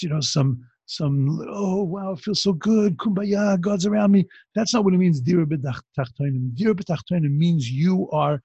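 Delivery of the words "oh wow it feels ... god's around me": mock dreamy. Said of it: "It doesn't mean just".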